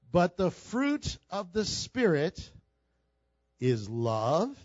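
slow and deliberate, lingering on each word; scripture read slowly to the congregation. Shown as a demonstration. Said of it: "let me read it slowly".

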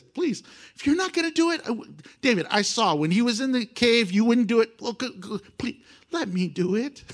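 eager pleading. Retold or imitated. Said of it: "Then Abishai said to David".

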